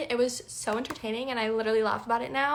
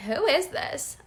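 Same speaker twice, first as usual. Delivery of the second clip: put-on young girl voice; 6 semitones higher, slower than usual. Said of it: "She said".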